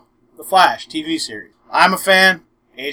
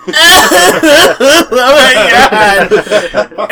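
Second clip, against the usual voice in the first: high, loud, overwhelmed oh my God through laughter; imitating a teary gasp; 8 semitones higher, 7 dB louder, much slower than usual. Retelling his girlfriend's reaction to the proposal, mock overwhelmed gasp. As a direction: play her stunned joy, hammed up. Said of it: "Just like".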